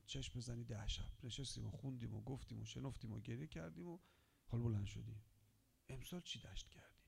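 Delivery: low, soft, partly whispered sermon; hushed preaching. Real, not acted. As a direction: draw them close with a hush. Intimate whispered sermon passage. (موعظهٔ آرام و نجواگونه)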